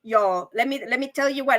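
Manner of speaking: ordinary talk, nothing marked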